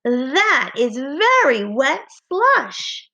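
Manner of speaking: slow, lively excited read; with excitement. Shown as a demonstration. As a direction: say it like it's thrilling news. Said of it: "I'm going to say it with excitement".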